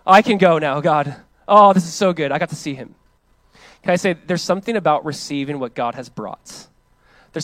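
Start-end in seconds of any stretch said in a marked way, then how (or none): 0.1-3.0 joyful praise. Retold or imitated.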